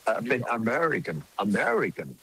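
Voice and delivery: slow, high, showy English with a put-on foreign accent; affected English accent. Shown as a demonstration. Showing off an affected foreign accent to impress listeners with English. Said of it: "ผมก็ดัดจริตนะ".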